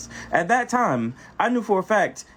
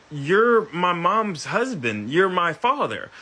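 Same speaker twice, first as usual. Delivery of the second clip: straight face; slower than usual. Retold or imitated. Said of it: "She looked at me with a straight face".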